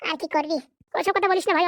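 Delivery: ordinary talk, nothing marked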